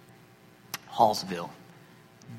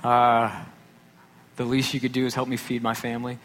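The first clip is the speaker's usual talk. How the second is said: frustrated prayer; 2 semitones higher, 4 dB louder than usual. Retold or imitated. Retelling dad's prayer about feeding family, loud and pleading. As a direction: demand help from God, raised and strained. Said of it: "my dad's prayer went something along this line".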